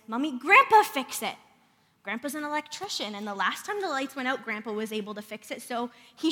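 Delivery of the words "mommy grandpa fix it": lightly voiced toddler, louder; a hint of toddler pleading; little boy. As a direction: imitate a small child's hopeful request. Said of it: "So then he says".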